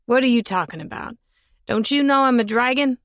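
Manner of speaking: put-on boy calling up the tree, unbothered; curious boy. Boy asking the girl up the tree, lightly voiced.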